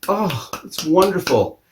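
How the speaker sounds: mock the swooning fans; a crooning fan, overdone; gushing audience. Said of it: "the audience is just".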